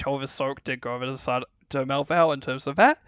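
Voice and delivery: talking through a yawn; words stretched by a real yawn. Real, not acted. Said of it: "Sorry, yawning".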